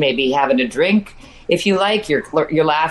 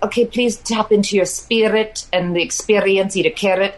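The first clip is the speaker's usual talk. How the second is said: put-on mid-Atlantic accent; 3 semitones higher than usual. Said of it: "this mid-Atlantic accent".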